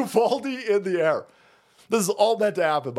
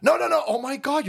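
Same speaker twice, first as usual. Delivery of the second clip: mock gushing; 8 semitones higher than usual. Mocking how culture cheers people on.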